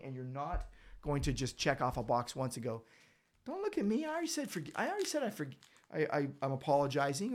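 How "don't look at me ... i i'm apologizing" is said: high-pitched, exasperated brush-off; mock defensive protest. Imitating a believer brushing off a friend, high and defensive. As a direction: squeak it out like someone cornered. Mocking a defensive half-apology.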